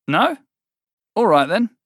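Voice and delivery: a hint of a bored demon; impatient fiend. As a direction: fiend giving up on the silent cult, impatient. Fiend prods silent cult.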